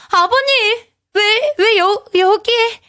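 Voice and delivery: high, startled stammer. A narrator's reading. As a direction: gasp out the words in shock. Startled wife waking to intruder. (놀라서 더듬는 높은 목소리)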